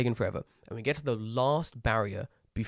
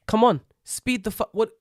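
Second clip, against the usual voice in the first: loud, high mock yell of impatience; exasperated shout at the gate staff; impatient yell; 7 semitones higher, 5 dB louder than usual. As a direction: hurry them up, shouting. Retold impatience at slow staff.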